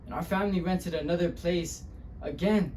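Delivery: subdued dramatic storyteller; weighted pauses, building on the last word. Acted. The speaker recalling eviction and isolation, subdued then bitter. Monologue continues, more subdued.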